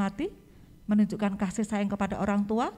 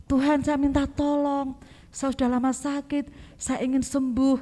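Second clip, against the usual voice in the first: sincere plea; 4 semitones higher than usual. Acted. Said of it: "dengan tulus dia mengatakan".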